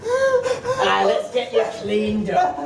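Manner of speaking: breaking up laughing mid-line. Real, not acted. The speaker tries to welcome the Greek but collapses laughing. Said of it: "laughing fit".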